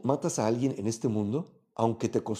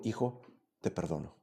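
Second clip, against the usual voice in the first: much lower and softer, almost hushed; tender forgiveness; 8 semitones lower, 10 dB quieter than usual. A narrator's reading. The blinded king tells his son he forgives him, hushed and tender. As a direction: let it fall gently like a father's last gift.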